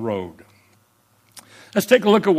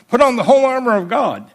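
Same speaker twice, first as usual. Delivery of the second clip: proclaimed verse; 7 semitones higher, 5 dB louder, faster than usual. Acted. Shouted repeat of the verse.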